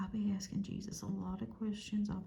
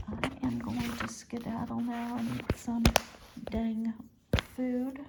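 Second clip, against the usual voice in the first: playful excitement; 3 semitones higher, 6 dB louder, slower than usual. Real, not acted.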